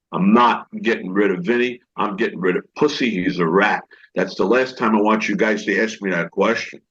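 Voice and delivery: low, firm retold refusal; David Chase. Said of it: "And David Chase said".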